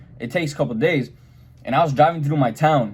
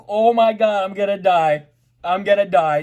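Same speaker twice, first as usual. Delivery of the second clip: much higher, louder retold terror; mock panic; 7 semitones higher, 3 dB louder than usual. Retelling facing the drawn guns, hammed-up panic. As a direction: gasp it out like you're about to be shot.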